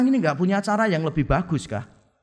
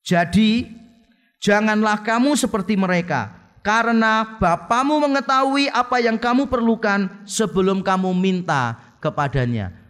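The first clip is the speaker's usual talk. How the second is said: scripture reading; 3 semitones higher than usual. Real, not acted. Reads scripture verse.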